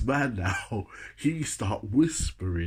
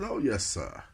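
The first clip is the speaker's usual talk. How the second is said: mock posh English reply; lightly affected posh accent; put-on posh voice. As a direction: answer in your best posh voice. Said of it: "I put on my posh voice".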